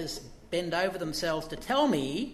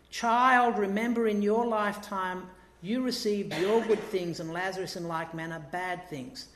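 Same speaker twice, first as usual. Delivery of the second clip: Abraham's reply; 2 semitones higher, 3 dB louder than usual. Retold or imitated. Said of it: "he says to him".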